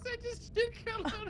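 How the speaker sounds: words through helpless laughter; laughing so hard it's crying; hysterical laugh. Real, not acted. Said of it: "I'm crying".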